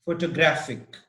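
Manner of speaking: photographic stressed on the third syllable GRAPH. Shown as a demonstration. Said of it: "and the third in".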